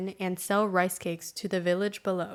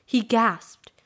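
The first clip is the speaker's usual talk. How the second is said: whispered; 2 semitones higher, 6 dB louder than usual. Acted. Boy sees tiger at door.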